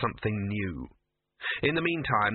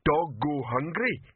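slow, lumbering simpleton, pitched up; Detritus; 4 semitones higher, slower than usual. A narrator's reading. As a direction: plod through it word by word. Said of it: "came detritus's voice".

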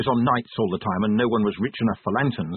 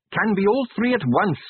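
higher-pitched, pained admission; wincing; 10 semitones higher, 3 dB louder than usual. A narrator's reading. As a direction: say it with a slight wince.

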